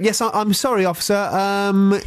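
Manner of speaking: retold nervous stammering; mock fearful. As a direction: imitate someone panicking in front of police. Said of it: "complete fear makes you".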